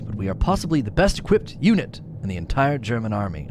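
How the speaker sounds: lightly voiced stiff German officer; officer's log. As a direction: read it like a formal army report. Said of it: "I'm not doing a German accent".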